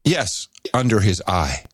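low, flat and pointed; deadpan ominous reply. Shown as a demonstration. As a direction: say it like a grim ritual phrase. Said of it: "I have a good retort".

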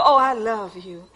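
soft, low, breathy lover's voice; tender and low; gentle. Shown as a demonstration. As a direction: say it softly like to a lover. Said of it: "It's just so gentle".

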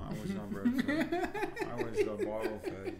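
high, laughing answer. Real, not acted. Answering the drinking question, laughing high. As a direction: giggle through the confession.

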